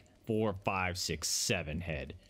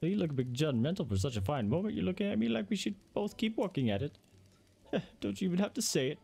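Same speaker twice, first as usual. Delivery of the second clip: much higher, bubbly sales pitch; high-pitched saleswoman voice; 10 semitones higher than usual. Acted. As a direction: play the chirpy house dealer, pitched way up.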